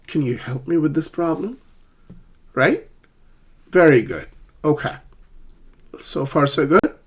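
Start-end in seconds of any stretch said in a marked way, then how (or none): 0.1-1.6 higher voice, "help" stressed, "problem" rising; stress on key words. Shown as a demonstration. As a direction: ask it leaning on "help" and "problem". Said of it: "two words in the sentence are stressed".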